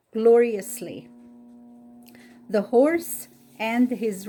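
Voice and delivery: deliberate read-aloud with long pauses between phrases; story narration. A narrator's reading.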